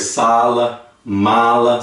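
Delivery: "Sala, mala" with an open, long first A. Shown as a demonstration. Teacher showing the double A sound, open vowel in "Sala, mala". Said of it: "Mais aberto".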